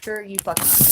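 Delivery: sharper, forceful "Sure you fucking aren't"; angry. Real, not acted. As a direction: snap it back with heat. Repeated with more force.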